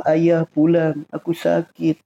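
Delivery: mock plaintive plea, words drawn out; imitated complaining. Preacher voicing a sick wife calling her husband home, mildly complaining. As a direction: lightly act a wife moaning about being ill.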